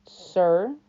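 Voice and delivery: sleek, silky correction; smooth. A narrator's reading. Guard correcting the boy, smoothly. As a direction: add it with cool polish. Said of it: "he added smoothly".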